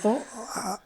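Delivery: hesitant, high-pitched acted apology; politely ask, as if utterly lost; puzzled polite request. Acting his puzzled polite reply.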